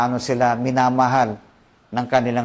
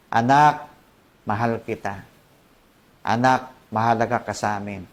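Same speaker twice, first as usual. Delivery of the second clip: tender affirmation; 4 semitones lower than usual. Acted. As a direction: say it lovingly to your child. Parent affirming a child.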